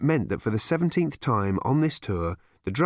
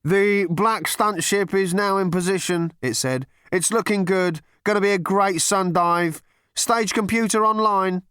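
third voice; 9 semitones higher, 4 dB louder than usual. Acted. Stage crew announcing the stunt ship, high and loud.

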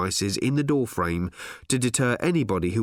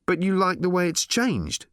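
pressing, raised-pitch demand; 8 semitones higher than usual. A narrator's reading. Ford questioning the giddy robot, demanding. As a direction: push the question hard and impatiently. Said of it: "demanded Ford".

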